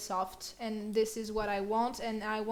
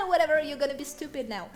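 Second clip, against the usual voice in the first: higher, quick dismissive jibe; mocking hormones; 4 semitones higher, 5 dB louder, faster than usual. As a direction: blurt it like a sassy inner voice. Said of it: "my hormones are like".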